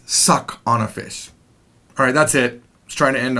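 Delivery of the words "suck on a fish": slow mnemonic. Shown as a demonstration. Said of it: "one way to remember".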